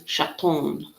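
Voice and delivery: a hesitant try at a French "Chaton"; self-conscious French-accent attempt; French pronunciation. Shown as a demonstration. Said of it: "Need to get my French accent".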